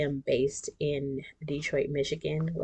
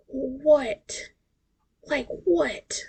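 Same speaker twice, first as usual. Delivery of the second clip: high disbelief; 9 semitones higher, much slower than usual. Real, not acted. Disbelief at her aging body.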